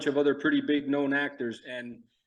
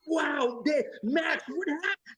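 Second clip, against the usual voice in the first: over the top; 13 semitones higher, slower than usual. Retold or imitated. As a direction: go totally over the top, like a fool. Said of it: "you want me to act like an idiot".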